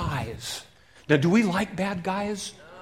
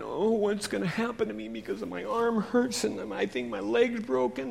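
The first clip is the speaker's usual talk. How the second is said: a hint of a hurt man; mild moaning; 5 semitones higher than usual. Wounded man thinking.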